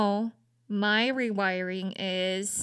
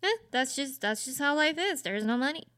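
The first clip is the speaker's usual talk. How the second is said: mock casual mom, higher; casual shrug; 5 semitones higher than usual. Daughter imitating her mom casually shrugging off money, higher. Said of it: "very casually being like".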